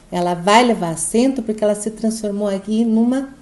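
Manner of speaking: ordinary delivery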